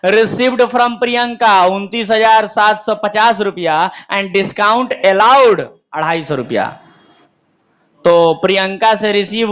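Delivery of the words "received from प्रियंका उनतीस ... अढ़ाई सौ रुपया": slowly read-out question; slow dictation. Shown as a demonstration. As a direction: spell it out slowly for copying. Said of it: "अगला लिखा है".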